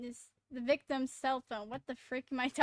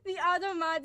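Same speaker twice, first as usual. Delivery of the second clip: words breaking up with real laughter; laughing while talking; 6 semitones higher, 9 dB louder than usual. Real, not acted. Player amused by the automod, talking through laughter. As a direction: start high and loud, settle as the giggles go on.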